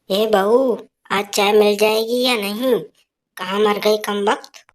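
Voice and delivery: put-on a scolding old woman calling for her tea; mother-in-law shouting for her tea, scolding; nagging mother-in-law. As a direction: bark for the daughter-in-law. Mother-in-law calls daughter-in-law.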